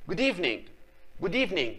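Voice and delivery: "evening" ending on soft ng, no hard G; silent final G. Shown as a demonstration. Teacher models the greeting for pupils, G not pronounced. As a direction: let "evening" end without a released G. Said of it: "الحاجة أخرى اللي مانيش ننطق فيها اللي هي ج".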